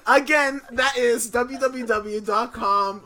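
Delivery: slow, loud attempt at New York accent. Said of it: "I was trying to do a New York accent".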